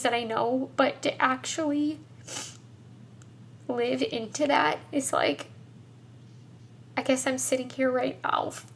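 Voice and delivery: real tearful voice, halting between phrases; crying. Real, not acted. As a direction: talk through tears, searching for the words. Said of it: "and I'm crying".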